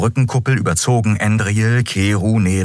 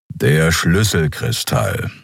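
slow gruff creature; 3 semitones lower, slower than usual. Acted. Kero answers.

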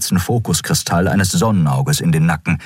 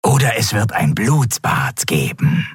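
disembodied voice; 3 semitones higher than usual. Acted. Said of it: "ertönte die körperlose Stimme".

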